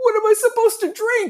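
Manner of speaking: very high-pitched, tearful crying voice. Retelling a client's tearful reply about giving up soda: imitating someone crying. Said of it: "she threw tears".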